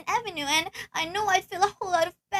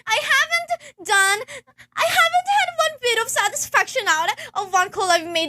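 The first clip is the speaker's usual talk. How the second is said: hysterical complaint; 2 semitones higher than usual. Acted.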